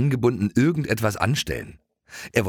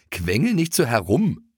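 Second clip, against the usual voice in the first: groaning; 5 semitones higher than usual. Acted. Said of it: "stöhnte Keks".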